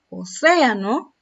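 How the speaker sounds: Océano with a loud, lengthened "cé"; stress on first E. Shown as a demonstration. Teacher asks where the accent falls, "cé" stressed in Océano. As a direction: lean hard on "cé" in Océano. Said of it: "¿Dónde, eh, está la sílaba con acento?".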